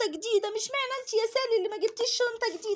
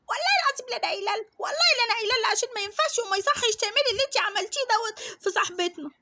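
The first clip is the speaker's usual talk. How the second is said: put-on tattletale girl. Classmate insisting she will tell mum, fast. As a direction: swear you'll tell, quickly.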